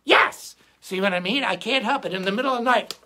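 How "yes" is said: high, loud triumphant yelp; Joey taking over. Acted. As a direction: burst out as the cocky alter ego. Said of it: "he takes control".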